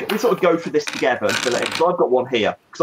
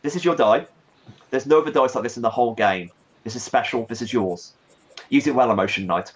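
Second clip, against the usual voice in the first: spooky voice; 3 semitones lower than usual. Shown as a demonstration. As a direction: read it like a haunting incantation. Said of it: "maybe I should do it in a spooky voice".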